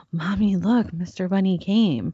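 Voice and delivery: put-on excited gasp then little girl voice; imitating her three-year-old finding the basket; toddler voice. Mom imitating her daughter at the basket, gasping.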